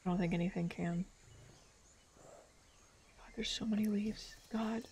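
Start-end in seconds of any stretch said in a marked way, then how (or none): 3.2-4.9 breathy whispered complaint; whispering. Real, not acted. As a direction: whisper it under your breath. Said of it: "whisper heard".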